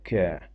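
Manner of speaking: French que said "кьо". Shown as a demonstration. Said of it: "Слово читається як".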